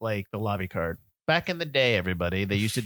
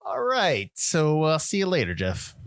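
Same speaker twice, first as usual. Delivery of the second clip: mock brush-off; 4 semitones higher, 3 dB louder, slower than usual. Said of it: "I would've been like".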